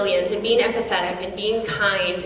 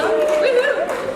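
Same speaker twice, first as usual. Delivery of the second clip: high, louder whoop; cheering woohoo; 5 dB louder than usual. Real, not acted. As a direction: let out a celebratory woohoo. Cheering with the audience.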